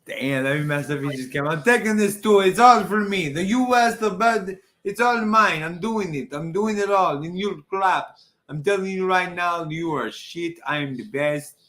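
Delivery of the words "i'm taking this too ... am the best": a lightly put-on bad Australian-ish villain accent; clumsy half-Australian heel voice. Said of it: "I suck at accents".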